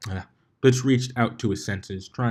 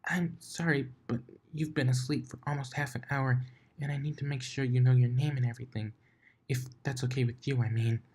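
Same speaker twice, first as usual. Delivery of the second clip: breathy, higher, softer apology; shy soft whisper; 4 semitones higher, 5 dB quieter than usual. Acted. Fluttershy gently waking Blitz, whispered and shy. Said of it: "the quietest and shyest voice".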